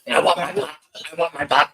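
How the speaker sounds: lightly voiced ethereal gremlin; a hint of a ghostly whine. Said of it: "It's here an ethereal voice".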